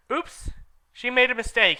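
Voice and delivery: high squeaky mock correction; mocking old wizard. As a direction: poke fun at her slip. Dumbledore voiced mocking.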